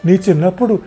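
said loudly. Acted. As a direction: speak up so everyone hears. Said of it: "అన్నది పెద్దగా".

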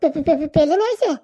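slow, stuttering disbelief; stammering in amazement; stunned stammer. Acted. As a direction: trip over the word in shock. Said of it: "আমার তো বিশ্বাস হয় না".

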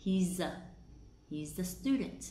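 "He's a" run together as "hee-zuh"; linked z. Shown as a demonstration. Teacher pointing out the linking, "He's a" as "hee-zuh". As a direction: link the z of "He's" into the schwa. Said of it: "âm z nó với ở".

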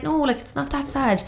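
slow, drawn-out brush-off in a put-on voice; mock dismissive. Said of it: "They were kinda like".

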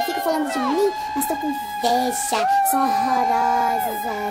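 vain diva insulting the crowd; diva character. Acted. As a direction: play a stuck-up beauty queen. Jennifer character boasting to audience.

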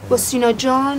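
slow mocking echo with a laugh; teasing laugh. Friend teasing the girl about dear Sina. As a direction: tease him about it.

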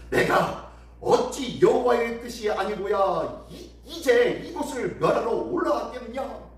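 lightly acted general's claim; mocking boast. Assyrian general claims God sent him, mild mockery. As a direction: boast with emphatic rhetorical questions. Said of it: "마지막으로 이렇게 조롱합니다".

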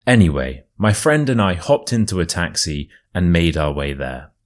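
storyteller reading a true tale; story narration. A narrator's reading. Reads the story aloud.

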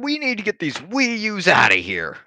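bigoted politician voice. Pretend. Mock bigoted speech.

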